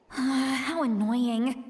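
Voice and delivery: annoyed. Acted. Inner grumble at a setback.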